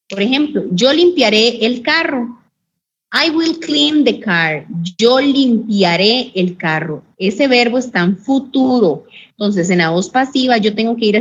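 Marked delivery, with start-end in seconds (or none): 3.1-4.7 slow, careful English model line; teacher modelling English; slow model sentence. Shown as a demonstration. 5.0-7.0 slow, deliberate Spanish gloss; careful classroom read; slow translation. Shown as a demonstration. Teacher repeats translation slowly.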